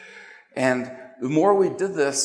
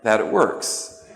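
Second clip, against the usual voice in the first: slow, deliberate words; slow emphatic; slower than usual. Real, not acted. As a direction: drag out each word. Slow punchline.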